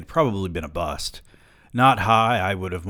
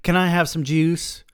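put-on little child voice; 9 semitones higher, 4 dB louder than usual. A narrator's reading. Narrator voices small child.

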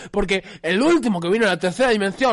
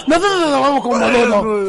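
talking like a fool. Acted. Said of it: "él habla como un boludo".

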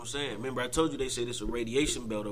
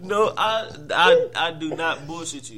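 insistent denial; 2 semitones higher, 6 dB louder, slower than usual. Real, not acted. Defends his theory against disbelief.

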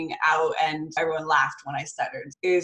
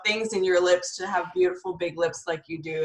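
emphatic reassurance; 5 semitones higher than usual. Retold or imitated. Mother reassuring bullied daughter.

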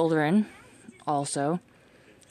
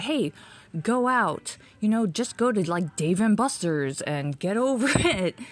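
breezy dismissive advice; 4 semitones higher than usual. Retold or imitated. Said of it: "I'm not just saying, like".

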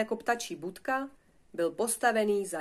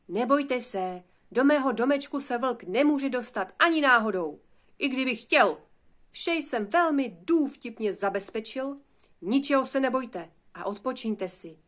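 confident, raised-voice reassurance; reassuring big brother; 4 semitones higher, 5 dB louder than usual. Acted. Eldest piglet calming his frightened brothers, confidently reassuring. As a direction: reassure them firmly, pitch lifted. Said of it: "uklidňovalo je".

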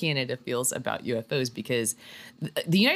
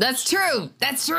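mock-serious agreement; 10 semitones higher, 4 dB louder, slower than usual.

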